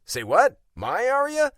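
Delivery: loud, pitch leaping up; startled disbelief. Acted. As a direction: blurt it out, completely thrown. Startled at hearing Arya's name.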